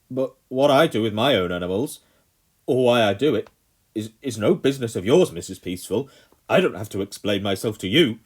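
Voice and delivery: loud, pompous colonel; haughty anger. A narrator's reading. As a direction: brush her off with contempt. Colonel rebuffs Mother.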